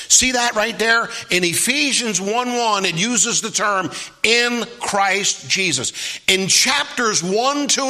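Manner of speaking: preacher hammering his point slowly; emphatic preaching. Real, not acted. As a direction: drive the key words home to a congregation.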